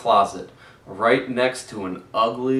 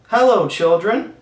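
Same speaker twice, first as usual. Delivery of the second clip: sweet voice; 9 semitones higher, 8 dB louder than usual. A narrator's reading. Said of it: "in a sweet voice".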